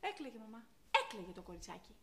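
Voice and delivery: very soft, low insistence; hushed, low reproach; quiet reproach. Acted. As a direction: drop right down, pained and weary. Reproaches mother about crying girl.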